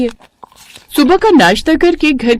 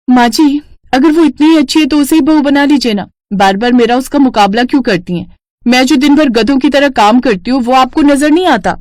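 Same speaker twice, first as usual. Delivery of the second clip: angry retort; 4 semitones higher than usual. Acted. Daughter-in-law answering mother-in-law's taunts, angrily. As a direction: snap back at her mother-in-law, higher.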